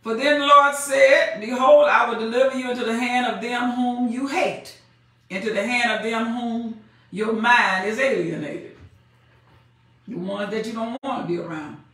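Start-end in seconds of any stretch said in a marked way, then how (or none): 0.0-8.8 measured preaching cadence; scripture reading. Acted. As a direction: read it like the Word itself. Preacher reads scripture aloud.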